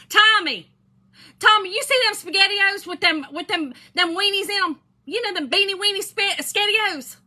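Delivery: high, loud hollering across the store; imitating a woman bellowing for Tommy, high and loud. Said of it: "And she hollers, hollers now, hollers".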